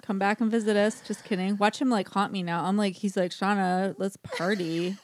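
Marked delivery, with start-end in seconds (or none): 3.3-5.0 Oscar Wilde party voice. Retold or imitated. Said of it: "he's, like, has an English accent".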